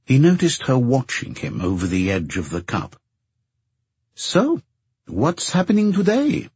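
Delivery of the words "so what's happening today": high, eager question; bright, expectant. A narrator's reading. Girlfriend asking her partner about his day, bright and expectant. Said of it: "asked in a bright, expectant voice".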